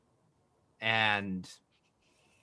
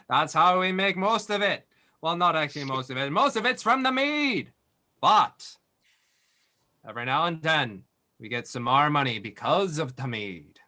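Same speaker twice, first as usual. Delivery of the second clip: jolly innkeeper voice. Acted. The speaker laughing.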